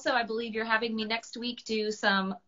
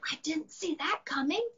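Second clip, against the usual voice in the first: unvoiced whisper aside; surprised whispered aside; 8 semitones higher, 4 dB quieter than usual. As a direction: whisper it to your friend in the crowd. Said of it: "Monster whispered to Dragon".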